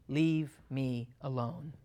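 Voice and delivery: low, quiet, slow dismissal; cold rebuff. Acted. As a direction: push the friend away, slowly and softly. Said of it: "this person responds to his friend".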